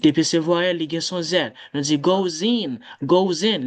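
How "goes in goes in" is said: "goes in" joined as go-zin; z liaison. Shown as a demonstration. Teacher showing the sound after vowels, z liaison. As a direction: link "goes in" with a voiced z. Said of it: "Les sons comme ça".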